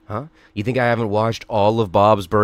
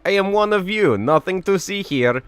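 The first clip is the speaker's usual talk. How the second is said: murloc voice; 5 semitones higher than usual. Pretend. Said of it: "It is fellow Murloc".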